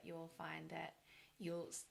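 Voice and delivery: hoarse, failing voice; losing voice. Real, not acted. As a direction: voice giving out mid-sentence. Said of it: "I'm just losing my voice".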